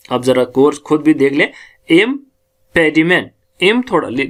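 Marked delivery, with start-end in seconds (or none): 1.9-3.2 impediment slow, "im" set apart, then stressed "PE". Shown as a demonstration. Teacher showing which sound takes stress, stress on PE. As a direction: linger before a stressed "PED" in impediment. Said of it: "प का हम ज्यादा stress कर".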